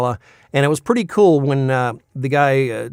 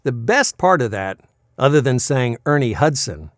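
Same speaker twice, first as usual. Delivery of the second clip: ordinary talk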